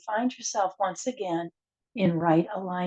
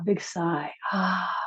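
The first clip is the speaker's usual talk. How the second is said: dramatic sigh; 4 dB quieter, slower than usual. Shown as a demonstration. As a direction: let out a big audible sigh. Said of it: "with a big sound of ah".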